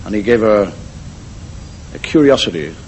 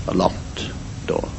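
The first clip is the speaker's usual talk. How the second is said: very soft, slow, near-whispered reveal; hushed suspense; 4 semitones lower, 11 dB quieter, slower than usual. A narrator's reading. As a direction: let it drop almost to a whisper, slowly. Suspense reveal of the locked door.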